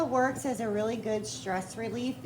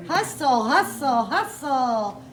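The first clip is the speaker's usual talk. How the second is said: drill coach; 5 dB louder than usual. Pretend. Host cheers guest on to exercise.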